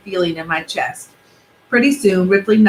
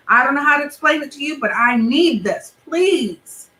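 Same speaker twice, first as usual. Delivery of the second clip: lightly voiced kid, higher, begging; pleading boy; 4 semitones higher than usual. Benji begging mom to chase the car, lightly higher. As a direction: push hard, then beg.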